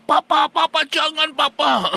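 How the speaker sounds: put-on high, loud child begging; pleading child. Child begging papa to stop hitting mama, high and loud. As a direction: cry out like a frightened child.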